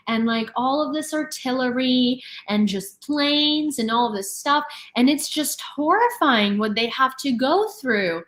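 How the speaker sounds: imitating an oblivious Russian's theatrical worry; mock distress. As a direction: wring your hands over her own family. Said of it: "And she was like".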